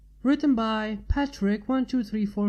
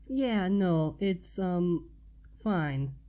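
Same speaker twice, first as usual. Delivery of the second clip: awkward, unsure reassurance; uncertain; 2 semitones lower, much slower than usual. Acted. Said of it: "she said uncertainly".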